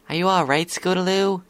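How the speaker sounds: high, concerned filly; Sweetie Belle. A narrator's reading. Filly checking on her shivering friend, concerned.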